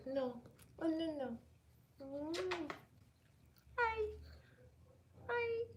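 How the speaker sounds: high sing-song voice for a dog; puppy talk voice. Real, not acted. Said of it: "I'm getting into puppy mode right now".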